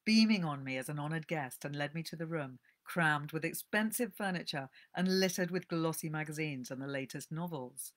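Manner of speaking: calm storyteller reading aloud; gentle book-reading voice; story narration. A narrator's reading. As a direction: read it like a cosy tale.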